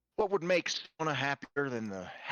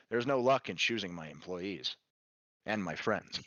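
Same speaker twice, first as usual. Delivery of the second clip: low character voice; 9 semitones lower, 4 dB quieter than usual. Acted. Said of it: "Ezra chuckles".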